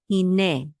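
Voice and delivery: hine ending in a short neh; short final E. Shown as a demonstration. Teacher correcting the ay sound, short E. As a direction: cut the last vowel of hine short. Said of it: "It's a shorter e sound".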